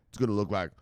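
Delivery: slow, drawn-out build to a loud "boom"; hype-man payoff; hyped boom. Real, not acted. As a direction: stretch it out and land the boom. Hyping portfolio gains.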